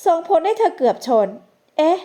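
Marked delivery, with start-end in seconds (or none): 1.5-2.0 higher-pitched little "eh" of surprise; exclaim, caught off guard; startled exclamation. A narrator's reading. Young woman as a stranger suddenly blocks her way, startled exclamation. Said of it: "กันธิกาอุทาน".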